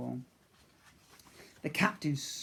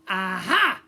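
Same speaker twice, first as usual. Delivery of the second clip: triumphant aha; 4 semitones higher, 11 dB louder than usual. Acted. Character exclaims on finding brooch.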